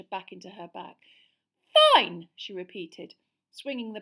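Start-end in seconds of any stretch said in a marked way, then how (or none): 1.9-2.3 loud clipped shout; angry. A narrator's reading. Girl storming out of the class, shouting. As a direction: spit it out furiously.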